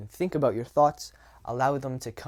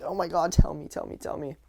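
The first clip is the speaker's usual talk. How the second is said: impatient urging; 4 semitones higher than usual. Retold or imitated. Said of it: "sitting there just wanting to jump up and down".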